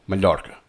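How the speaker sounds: MALLORCA with the Catalan palatal LL; Catalan pronunciation. Shown as a demonstration. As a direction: say "Mallorca" as ma-LYOR-ka, Catalan style. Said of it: "in Catalan, it's written like that".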